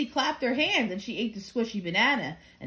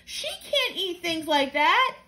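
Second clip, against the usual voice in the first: stern; 7 semitones higher, slower than usual. Acted. Mother objects to food.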